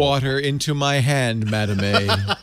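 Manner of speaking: slow, deliberate order to a voice assistant; playful, stately command; mock grand command. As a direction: intone it like a solemn request.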